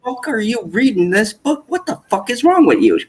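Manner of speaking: imitating a scandalized mom yelling at her son; angry mom. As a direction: play the outraged mother, hammed up. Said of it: "And she goes".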